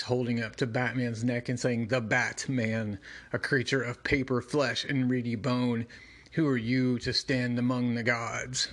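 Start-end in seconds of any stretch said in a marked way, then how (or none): 1.9-8.7 lightly voiced ancient monster; a hint of a menacing demon. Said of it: "doing monster voice".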